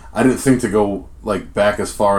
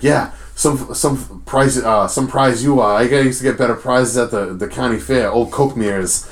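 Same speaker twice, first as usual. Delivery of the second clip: put-on wrestling promo in a Boston accent, higher-pitched; Mike McCarthy; 4 semitones higher, slower than usual. Fan retelling an indie wrestler's promo, Boston accent. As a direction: imitate a wicked Boston accent, dropping the R's. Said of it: "he has a wicked Boston accent".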